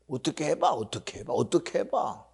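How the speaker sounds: soft, fading mock dare; taunting hush. Preacher taunting Pharaoh's helplessness, dropping to a hush. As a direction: dare them quietly, letting it die away.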